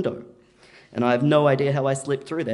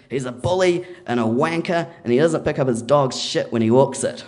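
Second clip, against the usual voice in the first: raised, punchy retold complaint; emphatic denunciation; 3 semitones higher, 5 dB louder than usual. Lawyer chatting at the fence hole, emphatic complaint. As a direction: punch the insults with relish. Lawyer venting about the neighbour.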